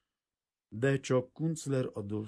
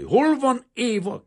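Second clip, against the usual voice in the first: much higher, louder, slow rasp; rasping demand; 15 dB louder, slower than usual. A narrator's reading. Kazimír rasps at the frightened maid, hoarse and wild. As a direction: croak it out at her. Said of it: "kérdezte tőle hörögve".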